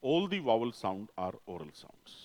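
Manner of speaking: each word of "All the vowel sound are oral sounds" placed slowly; slow, deliberate teacher's summary; very slow emphasis. Shown as a demonstration. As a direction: spell it out slowly for the class. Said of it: "ये याद रखना।".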